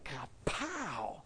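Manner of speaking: mouthed "kapow" with a burst on the second beat; imitated impact noise. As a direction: mimic a blow landing. Imitating the blow he dealt.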